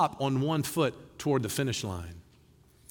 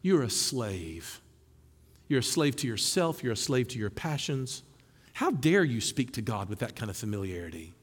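accusing shame voice; 4 semitones lower, 3 dB quieter than usual. Retold or imitated. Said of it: "it's the voice that looks and says".

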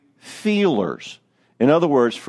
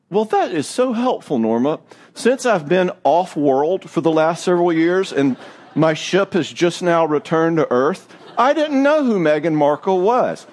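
dry mock-grateful sarcasm; sarcastic; 2 semitones higher than usual. Husband to Norma over Meghan Markle, sarcastic. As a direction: drip with fake gratitude. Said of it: "And I said".

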